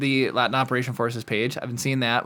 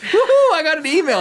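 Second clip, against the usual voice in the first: excited; 13 semitones higher, 6 dB louder than usual. Real, not acted. Cheering about a new email.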